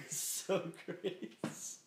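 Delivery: drawn-out "so-crates" through laughter; misread Socrates. Shown as a demonstration. Echoing the wrong reading back, laughingly mispronounced. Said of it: "how I read Socrates".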